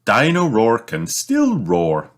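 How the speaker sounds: slow, cheering-up tone; brightly. Acted. Mother cheering up her sad son, bright slow tone. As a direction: cheer him up gently. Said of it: "says Mummy Pig brightly".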